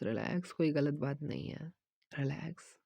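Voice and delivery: usual speaking voice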